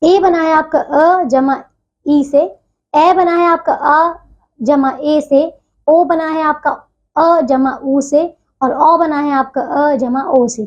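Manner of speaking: slow step-by-step vowel breakdown; walk the class through each vowel slowly; slow explaining. Shown as a demonstration. Teacher to her class, slowly breaking down each vowel. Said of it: "teacher spells out vowel sums".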